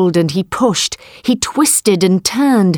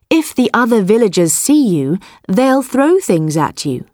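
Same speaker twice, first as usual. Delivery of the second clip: sly farmer; 4 semitones higher than usual. Acted. Man warns the tiger.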